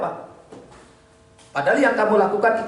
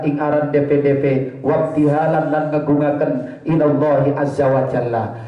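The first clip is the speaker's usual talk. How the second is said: kitab recitation; 3 semitones lower than usual. Acted. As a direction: intone the text like teaching in pesantren. Kitab reading with Javanese gloss.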